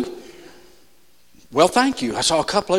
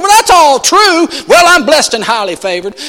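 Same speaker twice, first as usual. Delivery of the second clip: mock pious reply; 8 semitones higher, 6 dB louder than usual.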